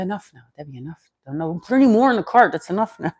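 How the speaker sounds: a mild mock scolding of herself. Talking to herself in the aisle, mildly scolding. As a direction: tell yourself off, half joking. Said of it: "as I'm talking to myself".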